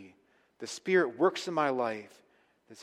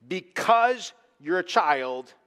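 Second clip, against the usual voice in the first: put-on slow, louder "because you're a child" with weight on "because"; emphatic; 3 semitones higher, 5 dB louder, much slower than usual. Shown as a demonstration. Preacher rereading verse seventeen for emphasis, slow, stressed "because". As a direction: lean hard on "because", drawn out. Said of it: "I can say it emphatically".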